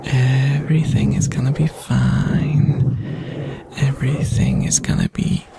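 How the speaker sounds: soothing relaxation whisper; ASMR whisper. Acted. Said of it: "It's just you, me, and the sounds".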